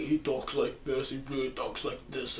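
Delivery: low, hushed Mad Max voice; Bane-like voice. Acted. Reviewer showing how Mad Max talks, Bane-like voice. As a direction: drop low and soft, slowed down, like Bane. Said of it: "his kind of a Bane voice".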